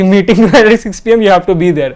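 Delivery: reading the message slow and stern; mock stern summons; curt senior summons. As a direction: mimic the senior's blunt order.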